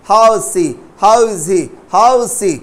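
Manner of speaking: "how is" drilled as one syllable, how's; contracted how's. Shown as a demonstration. Teacher drills students on he and she, contracted "how is". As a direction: say "how is" merged, no separate is. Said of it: "इस तरीका से ध्यान रखना है".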